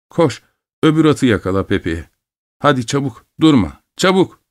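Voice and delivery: high, hurried call; urgent calling. Acted. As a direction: hurry the boy up.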